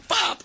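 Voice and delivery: a quick high "pap!" for the car shooting off; popping car noise. Retold or imitated. Joking about the little Golf car, a high mock engine pop. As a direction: pop it out like a small car zipping away.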